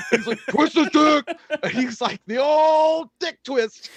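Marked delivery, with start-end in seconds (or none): 0.5-1.2 high, loud mock heckler shout; drunken yelling. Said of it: "He's yelling at the octagon". 2.3-3.9 put-on high holler with a long-held OLD; drunken yelling. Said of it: "He's yelling at the octagon".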